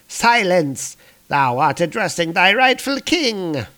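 imperious villain king. Acted. Usurper silencing his advisor, imperious and high. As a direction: pull rank on an underling.

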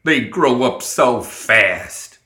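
very slow, sentimental delivery; stretched, misty-eyed lament; proud father getting sentimental; sighing, tearful pride. A narrator's reading. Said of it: "Summer sighed, wiping at his eyes".

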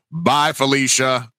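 slow, drawn-out mock send-off; lightly projected farewell, stretched out; retold mic call-out. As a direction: announce a dismissive goodbye as if into a microphone. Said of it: "I just got the mic real loud".

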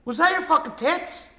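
high squeaky shocked quote; incredulous high question. Retold or imitated. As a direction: ask it in disbelief. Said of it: "He goes".

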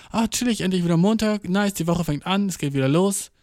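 mildly upbeat, starting high and settling; light mock cheer at a fresh start; pleased relief. Podcaster voicing the joy of Monday starting, pleased. Acts out happy Monday feeling.

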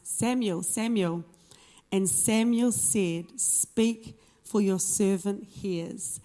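expressive Bible story narration, phrase by phrase; scripture reading. A narrator's reading. Preacher reads the story of Samuel to the congregation, expressive scripture reading. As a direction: read it out with lifted, animated quotes.

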